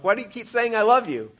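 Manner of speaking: high, loud, baffled retold question; exasperated. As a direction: ask in mock frustration. Frustrated question to God, retold.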